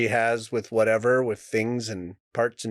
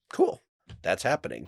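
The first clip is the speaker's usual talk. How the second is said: lower, offhand acceptance; flat and casual; 3 semitones lower than usual. Shown as a demonstration. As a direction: shrug it off coolly. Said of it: "Instead, I just go".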